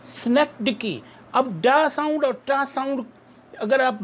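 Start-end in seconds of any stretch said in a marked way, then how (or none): 0.1-1.0 synecdoche at normal pace with stress on the end; teacher repeating synecdoche; model pronunciation. Shown as a demonstration. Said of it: "जब दोहराएंगे तो आपको समझ आएगी".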